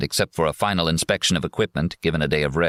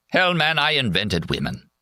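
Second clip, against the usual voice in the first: put-on drunk boasting; 7 semitones higher than usual. A narrator's reading. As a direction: brag like a happy drunk.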